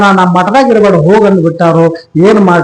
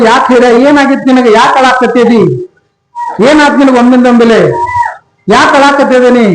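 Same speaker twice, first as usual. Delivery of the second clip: worried wife, higher pitched; alarmed questioning; 5 semitones higher than usual. Acted. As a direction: press a weeping husband with anxious, raised questions. Alarmed wife questions weeping husband. (ಗಾಬರಿಗೊಂಡ ಹೆಂಡತಿಯ ಪ್ರಶ್ನೆಗಳು)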